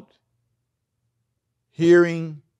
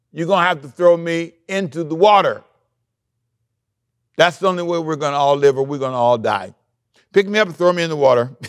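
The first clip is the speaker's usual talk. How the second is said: urgent Jonah; 5 dB louder than usual. Retold or imitated. Preacher acts out Jonah's urgent speech.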